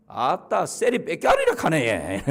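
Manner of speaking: slow, laughing Gyeongsang dialect punchline; 경상도 사투리로 웃으며; Gyeongsang accent. Retold or imitated. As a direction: joke it out like a country interviewer from Gyeongsang. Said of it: "경상도 면접관이".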